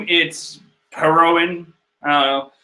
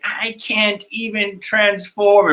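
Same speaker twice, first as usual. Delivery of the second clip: Chopper; 4 semitones higher, slower than usual. Acted. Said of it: "So there is Chopper being covered in candy".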